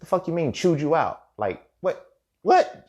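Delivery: high, incredulous questioning, peaking on the last word; retold disbelief. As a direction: act out baffled disbelief, voice jumping up. Retold disbelief at being chewed out.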